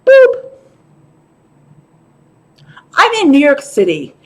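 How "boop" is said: short high-pitched toot; high single beep made by mouth; horn boop. Retold or imitated. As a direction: imitate a feeble little horn. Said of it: "a horn that sounds like".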